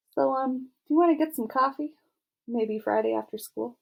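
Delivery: high, quickening invitation; bold and brassy. A narrator's reading. Girl asks football star out as bell rings, boldly. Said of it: "I'm feeling bold and brassy".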